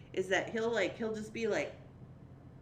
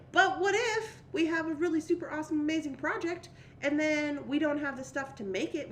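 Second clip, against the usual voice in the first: higher, louder worried inner voice; inner voice two; 4 semitones higher, 5 dB louder than usual. Acted. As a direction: panic about the beads running out. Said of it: "Opinion number two is like".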